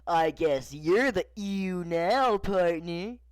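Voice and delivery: lightly voiced cowboy toy, slow; hint of a slow cowboy character; Woody. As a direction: stretch it out slowly, lifting on partner. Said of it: "Woody then looked into the screen and said".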